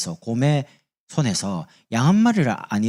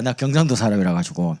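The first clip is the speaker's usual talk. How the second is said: ordinary delivery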